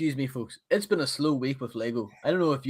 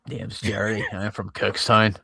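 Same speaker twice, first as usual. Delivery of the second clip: Northern Irish accent; 4 semitones lower, slower than usual. Shown as a demonstration. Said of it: "It's a bit more harsh".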